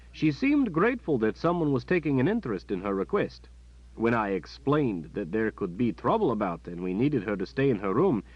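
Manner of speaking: a guard reporting to the Mother Confessor; captain's report. Acted. Captain reporting on Nadine to the Mother Confessor, dutiful.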